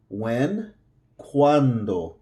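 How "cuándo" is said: ¿Cuándo? with the cu said like English qu, kwan-do. Shown as a demonstration. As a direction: start ¿Cuándo? with a kw sound. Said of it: "Think of the C U as a Q U".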